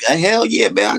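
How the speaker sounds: high, loud hyped cheer; mock hype. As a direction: shout it like a hype man. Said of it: "He go".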